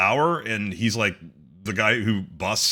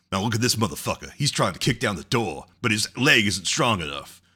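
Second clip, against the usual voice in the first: lightly voiced radio DJ, lower; laid-back DJ commentary on a clip; radio DJ impression; 3 semitones lower than usual. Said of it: "a black radio D J".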